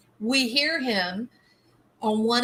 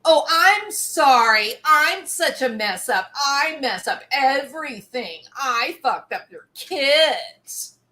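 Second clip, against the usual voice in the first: louder, whiny overblown sorry, slowing at the end; melodramatic mock apology; 4 semitones higher, 4 dB louder than usual. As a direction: ham up a self-pitying apology. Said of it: "turn them around into something melodramatic".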